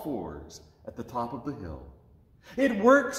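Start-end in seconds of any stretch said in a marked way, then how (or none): 2.6-3.2 high, loud burst of joy; excited cry. Acted. Zach sees his sheep land on the hilltop, thrilled cry. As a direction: shout it in delight. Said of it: "cried Zach".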